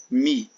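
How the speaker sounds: teacher naming each syllable of econômico aloud; syllable called out. Shown as a demonstration. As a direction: call out the syllable mi like a teacher pointing. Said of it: "é a penúltima".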